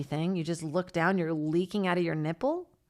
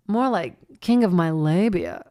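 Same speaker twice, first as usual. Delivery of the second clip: imitating Samantha's movie line; 5 dB louder than usual. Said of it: "she goes".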